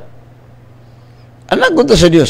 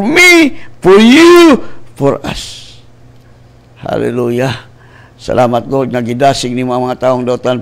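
passionate preacher's prayer, surging at the praises; fervent prayer; 3 dB louder than usual. Acted. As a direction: pray aloud for the listeners. Leads a prayer.

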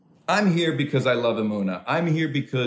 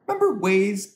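higher, insistent repeat of the question; emphatic repeat; 10 semitones higher, 3 dB louder than usual. Acted. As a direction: push it up, pressing the crowd to remember. Rising repeat of the callback.

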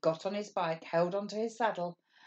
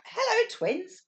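much higher, louder hello; calling out; 14 semitones higher, 6 dB louder, slower than usual. Acted. Carol calls hello to the twins from her bike, high loud call. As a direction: call out across the street. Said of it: "a voice called out".

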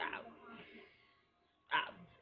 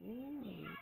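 mock ooh; 3 semitones higher than usual. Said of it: "I was just like".

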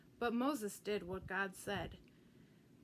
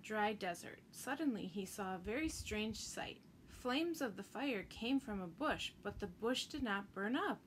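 put-on gentle storybook reading for Sunday school kids; expressive children's story narration. A narrator's reading. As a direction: read it like a bedtime Bible story. Reads Bible story to children.

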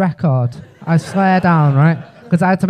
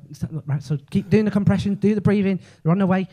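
mock dispatcher; 3 semitones higher, 5 dB quieter, faster than usual. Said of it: "and I go".

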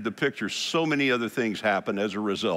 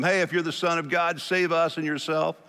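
mild mocking taunt; 5 semitones higher than usual. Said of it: "ridiculing him, mocking him".

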